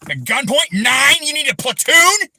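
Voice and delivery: loud, high, furious taunt; angry shout. Real, not acted. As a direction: sneer it up at them, loud. Furious rant at officials.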